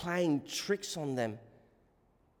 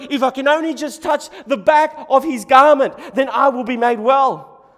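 loud, high desperate resolve; desperate woman; 11 semitones higher, 15 dB louder than usual. Acted. Desperate woman telling herself she can be healed, urgent and loud. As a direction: cry it out as a last hope. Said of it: "and she's desperate".

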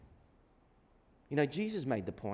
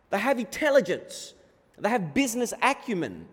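emphatic, driving sermon delivery; impassioned preaching; 2 semitones higher, 6 dB louder than usual. Real, not acted. Preacher urging listeners to pay attention, impassioned preaching. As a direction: press each point home to the congregation.

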